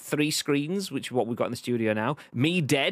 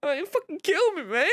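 high, squeaky fake-hurt wail; whiny victim. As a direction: play the wounded victim. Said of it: "So you've gotta be".

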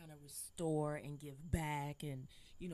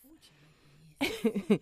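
excited exclamation; 9 semitones higher, 14 dB louder, much slower than usual. Real, not acted. Sassy reaction to a friend.

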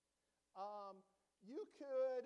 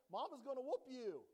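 gloating taunt; 5 semitones higher, 4 dB louder than usual. Pretend.

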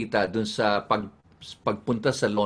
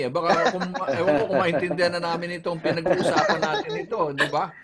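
higher-pitched teasing through laughter; laughing tease; 5 semitones higher, faster than usual. Real, not acted. Host teasing Jimmy about understanding his accent, laughing. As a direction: tease him while laughing, quick and high.

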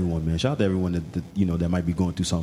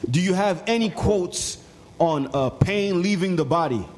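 put-on voice; 9 semitones higher, slower than usual.

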